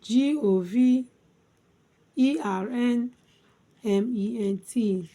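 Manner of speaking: letters chanted out chunk by chunk, settling at the end; spelled by syllables. Shown as a demonstration. Teacher spelling government for learners, syllable by syllable. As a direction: spell in three groups with long gaps. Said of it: "Let's spell".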